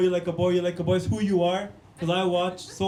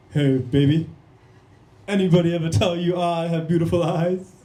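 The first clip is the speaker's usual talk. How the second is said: deep, punchy pick-up voice; low-pitched swaggering come-on; Indian Johnny Bravo; 3 semitones lower, 4 dB louder than usual. Acted. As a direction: hit on a girl in a low, cocky cartoon voice. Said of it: "Indian Johnny Bravo's crazy".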